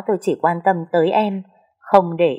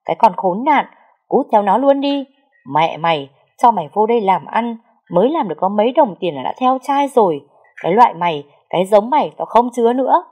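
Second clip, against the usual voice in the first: furious cursing; 3 semitones higher than usual. Acted. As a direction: scream her out of the house. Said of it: "chửi bới loạn xạ".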